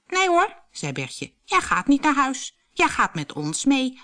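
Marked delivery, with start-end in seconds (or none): 0.1-0.6 very high, loud objection; cheery protest. A narrator's reading. Bertje stops the mole going home, high cheery protest. 1.5-4.0 high, emphatic invitation; eager insistence. A narrator's reading. Bertje invites the mole to dinner, eagerly insistent.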